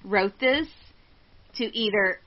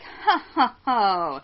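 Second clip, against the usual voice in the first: a hint of jolly Santa in the laugh; lightly voiced Santa; 3 dB louder, slower than usual. Retelling the intruder's reply to her, mock Santa laugh.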